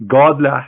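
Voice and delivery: "God lah" with the weight on "God"; stress on god. Shown as a demonstration. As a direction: hit "God", then a light "lah". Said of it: "Al mean God".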